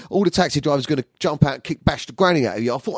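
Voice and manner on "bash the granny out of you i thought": usual speaking voice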